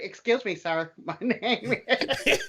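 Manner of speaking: half-laughing, put-on African accent; mock African accent. Marcus models the accent he asked Eric for, mock African accent. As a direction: imitate a polite African accent, breaking up. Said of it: "what's your African accent?".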